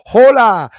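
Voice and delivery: loud, high delighted hello; happy greeting. Retold or imitated. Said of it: "so happy to say".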